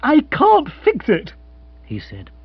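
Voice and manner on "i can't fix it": high, slow, aggrieved whine; lifted, drawn-out exasperation; moody gentleman. Acted. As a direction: complain like a helpless upper-class twit. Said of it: "looking moody".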